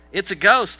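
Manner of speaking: loud, high cry of a frightened disciple; mock-terrified yell from a boat. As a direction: shout it like you've seen a ghost. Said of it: "cried out in fear".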